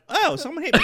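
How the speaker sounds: mild surprise. Retold or imitated. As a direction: act out a small surprise at being hit. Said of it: "it's like a surprise".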